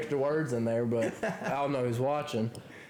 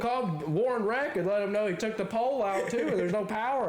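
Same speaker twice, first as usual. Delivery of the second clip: much higher, rapid ranting shout with a laugh; mock shouting; 10 semitones higher than usual. Answering Katie's police threat with a laughing shout. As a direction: fire it back at her.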